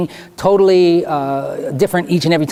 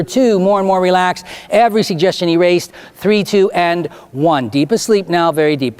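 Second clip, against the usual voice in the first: measured, emphatic hypnotist's countdown; commanding hypnotic patter; stage hypnotist. Real, not acted. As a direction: guide them firmly through the suggestions. Leads hypnotized volunteers out of trance.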